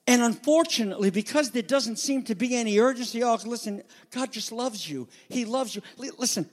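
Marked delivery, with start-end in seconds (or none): 3.2-5.8 softened, mock-sweet reassurance; mock soothing. Preacher mocking soft evangelists in a mock-sweet voice. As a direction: parody a soft feel-good preacher.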